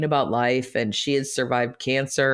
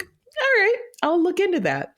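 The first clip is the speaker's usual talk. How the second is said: retold giving in. Retells giving in to suggestion.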